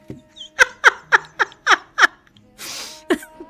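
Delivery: high, loud British greeting voice; put-on British accent. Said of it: "You like my accent?".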